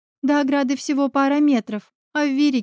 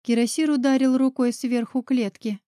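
ordinary delivery

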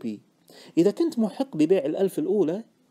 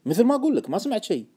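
raised start, settling into a statement; firm denial; 4 semitones higher than usual. Acted. Trader denying any tip to a doubting friend, insistent. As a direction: restate it to close the matter.

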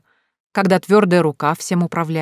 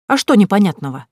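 haughty comeback, louder; надменно; 3 semitones higher, 6 dB louder than usual. A narrator's reading. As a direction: throw the question back haughtily. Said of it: "такой же надменный вид, как у неё". (надменно, с вызовом)

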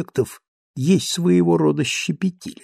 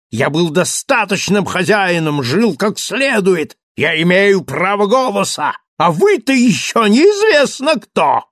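lightly raised, ranting ruffian voice; raging Thenardier; 3 semitones higher, 3 dB louder than usual. Acted. Thenardier rants at the rich gentleman, a lightly raised furious rant. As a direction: spit contempt at the rich.

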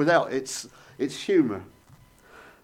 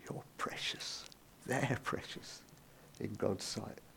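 "precious" whispered, unvoiced and much softer; 5 semitones lower, 20 dB quieter, slower than usual. Shown as a demonstration. Preacher reassuring the congregation, soft whisper. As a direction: breathe "You're precious" as a hushed whisper. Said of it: "Remember what I said?".

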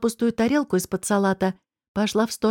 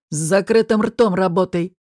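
barked; 2 semitones lower, 3 dB louder than usual. Acted. Boss barks at the waitress to shut up, gruff and menacing. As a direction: growl the order like a threat. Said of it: "рявкнул он".

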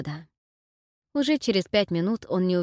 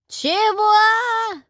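put-on high, loud drawn-out old woman's question; loud hard-of-hearing granny; deaf granny; 7 dB louder than usual. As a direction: play a deaf old woman, hand to the ear. Deaf granny asks again.

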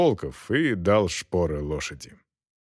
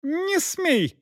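high, commanding lady's cry; shrill order. A narrator's reading. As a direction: forbid it from the carriage. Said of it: "закричала из кареты Элеонора Августа".

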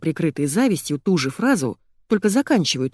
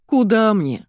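mild whine; 5 semitones higher, 4 dB louder, slower than usual. A narrator's reading. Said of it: "занудила та".

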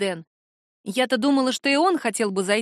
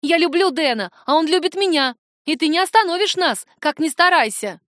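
defiant shouting; 6 semitones higher, 5 dB louder than usual. Acted. Daughter keeps shouting at mother.

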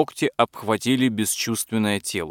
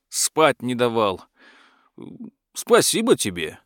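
grateful dragon; 2 semitones higher than usual. Acted. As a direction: complain and thank like a dragon.

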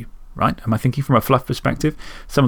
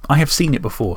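hiccups; 2 semitones higher than usual. Real, not acted. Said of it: "Sorry, I'm hiccuping".

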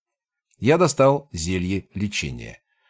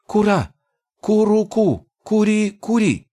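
high, eager goblin gibberish; a goblin nodding eagerly; excited goblin; 10 semitones higher than usual. Acted.

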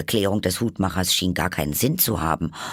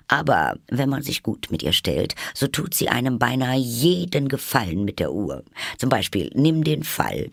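lightly voiced, higher-pitched Hatter; animated Hatter; 6 semitones higher than usual. A narrator's reading. Hatter explains Time to Alice, animated. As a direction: explain with lively, lifted pitch.

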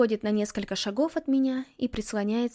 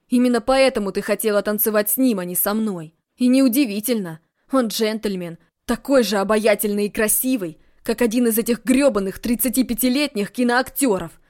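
much louder bitter tirade; jealous rant; 8 dB louder than usual. Acted. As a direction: let the jealousy burst out. Jealous outburst about George.

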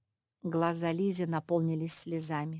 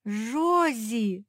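higher, louder happy call; overjoyed shout of a name; joyful cry; 4 semitones higher, 7 dB louder than usual. A narrator's reading. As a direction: glad to find her sister. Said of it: "обрадовалась Зефирка".

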